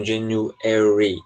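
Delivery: American stress. Shown as a demonstration. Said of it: "ele coloca ênfase, geralmente, no E".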